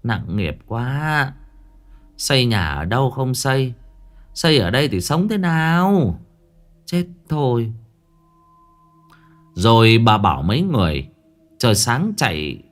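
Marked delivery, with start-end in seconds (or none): 0.0-7.7 sighing lament. Acted. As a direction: lament it with a heavy, higher-pitched sigh. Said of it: "lắc đầu thở dài". (than thở não nề)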